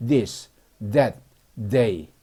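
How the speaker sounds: "this, that, they" each begun with buzzing TH; voiced TH. Shown as a demonstration. Teacher reviewing the 드 words, voiced TH. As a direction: bite the tongue and voice "this", "that", "they". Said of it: "혀를 물고 드 발음".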